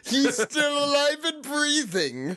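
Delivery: high, slow hammy villain voice; mustache twirling villain. Acted. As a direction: gloat it out like a cartoon villain. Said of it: "Am I going too far now?".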